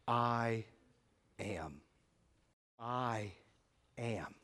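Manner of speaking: quiet, drawn-out I am with long pauses; solemn hushed declaration. Retold or imitated. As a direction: let each word fall softly, weighty and slow. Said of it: "notice with me what Jesus says".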